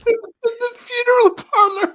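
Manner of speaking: laughing through the words; squealing with laughter. Real, not acted. Both laughing at quoted line.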